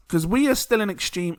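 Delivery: normal talking voice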